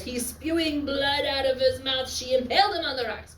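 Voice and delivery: lightly voiced goddess telling the gory tale; a hint of Hera relishing the kill; teacher lightly voicing Hera describing Ajax's death; quoting Hera. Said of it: "she says".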